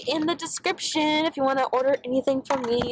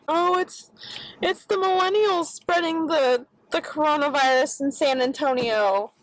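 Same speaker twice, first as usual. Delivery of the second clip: lightly voiced mocking grumpy old man, higher; 4 semitones higher than usual. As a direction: sneer a grumpy old man's complaint. Mocking the old man's view.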